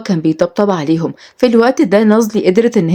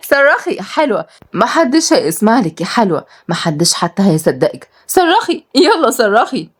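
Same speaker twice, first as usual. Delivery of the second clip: mocking taunt; 3 semitones higher than usual. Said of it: "وهي بتبص لها بسخرية".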